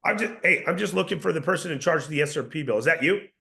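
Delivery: statement tune falling at the ends; confident falling delivery; downward inflection. Shown as a demonstration. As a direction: sound sure and in charge. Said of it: "Did you notice the inflection?".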